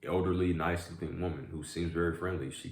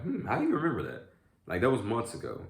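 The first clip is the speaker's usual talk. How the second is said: mildly amazed customer; 6 semitones higher than usual. Retold or imitated. Retelling surprised customers' reactions.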